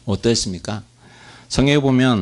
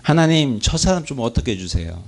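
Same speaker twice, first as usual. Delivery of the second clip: pleading prayer; 3 semitones higher than usual. Retold or imitated. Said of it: "사람에게 묶여서 하고 있는지".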